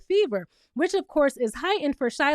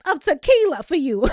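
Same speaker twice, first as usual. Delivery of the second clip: mock playful Britt; 4 semitones higher, 4 dB louder than usual. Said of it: "she's like".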